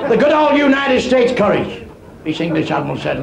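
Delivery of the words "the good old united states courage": mock patriotic.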